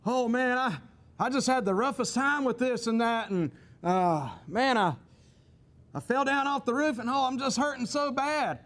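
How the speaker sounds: complaining, pitch climbing toward the end; acted sufferer wanting to be consoled; pained whining. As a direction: moan for sympathy, hammed up lightly. Acts someone whining to a choleric.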